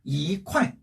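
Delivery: "이" rising lightly, "콰이" falling strongly; weak second-tone 이. Shown as a demonstration. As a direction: lift "이", then drop "콰이". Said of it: "앞에 이를 약으로 읽어줘서".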